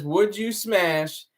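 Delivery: slow, separated words; one word at a time. Retold or imitated. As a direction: space out each word. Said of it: "he's saying one word at a time".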